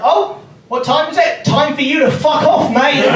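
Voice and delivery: high, shouted football taunt; mock taunt. Comic to a contestant, shouted football taunt. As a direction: jeer at him like a terrace chant.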